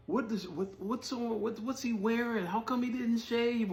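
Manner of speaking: high mocking gossip voice; judgy onlooker voice. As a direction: sneer like a nosy stranger judging looks. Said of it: "they're looking at you and just like".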